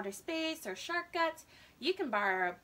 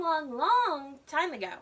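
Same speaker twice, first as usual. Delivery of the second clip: stretched, rising long long long; exaggerated endless long long long; 5 dB louder than usual. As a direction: pile up the longs dramatically. Sister exaggerating long time.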